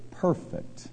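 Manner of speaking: perfect breathed out unvoiced, soft and drawn; whispered. Shown as a demonstration. Preacher to congregation, whispering perfect.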